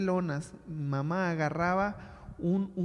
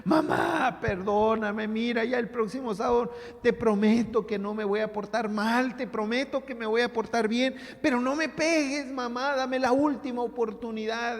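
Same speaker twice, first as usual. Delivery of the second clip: put-on pleading, higher, like a sobbing child; mock crying plea; 5 semitones higher, 3 dB louder than usual. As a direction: beg mom not to hit you, in a hammed-up child's whine. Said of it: "a llorar como Magdalena". (súplica llorosa de niño, imitada y exagerada)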